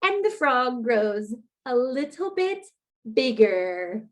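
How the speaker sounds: lively picture book read-aloud; reading to children. A narrator's reading. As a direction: read it like storytime for little kids.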